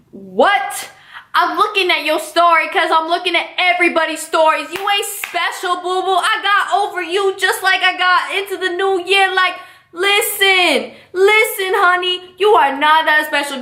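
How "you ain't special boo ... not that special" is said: sassy put-down. Real, not acted. Telling off the ex.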